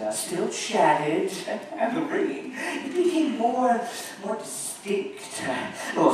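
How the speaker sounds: nervous, halting storyteller; dramatic recitation. Acted. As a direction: let the unease creep in.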